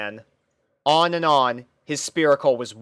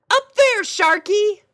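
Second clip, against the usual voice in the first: very high, loud and bright-eyed; a chirpy girl pony puzzled by her steed; squeaky cheerful pony; pony princess voice; 6 dB louder than usual. Acted. Pony character shouting.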